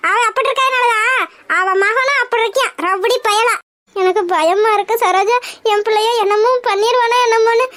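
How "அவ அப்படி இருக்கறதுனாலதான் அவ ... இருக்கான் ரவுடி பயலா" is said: bitter tearful complaint; choked, tearful accusation; crying. Acted. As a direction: blame her through sobs.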